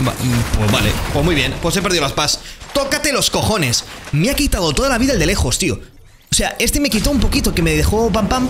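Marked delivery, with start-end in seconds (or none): 2.7-8.5 exasperated. Real, not acted. Annoyed after losing shotgun.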